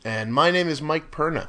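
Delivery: sniffly, stuffed-up allergy voice. Real, not acted. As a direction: talk through a stuffy nose. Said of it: "You sound a little, uh, sniffly".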